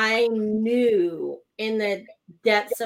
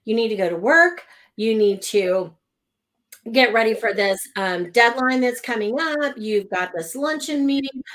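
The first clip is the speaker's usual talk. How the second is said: mild mock harsh push, a bit louder; harsh critical voice; 3 dB louder than usual. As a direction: nag like a stern inner critic. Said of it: "This very harsh, critical voice said".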